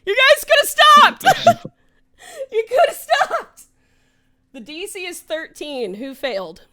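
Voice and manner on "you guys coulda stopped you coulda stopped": mock protest. Real, not acted. DM protests to players.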